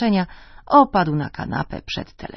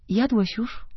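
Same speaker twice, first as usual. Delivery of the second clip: wife's question; 6 semitones higher, slower than usual. Acted. Wife questions late husband.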